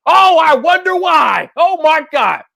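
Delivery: slow sarcastic mock wonder. Real, not acted. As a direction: feign wonder, dripping sarcasm. Mock wonder after point.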